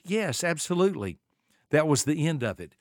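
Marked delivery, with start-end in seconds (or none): 0.0-1.2 lightly voiced grandchild, pitched higher; grandchild's reply. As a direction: imitate a grandkid readily agreeing, voice lifted. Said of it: "one of my grandkids".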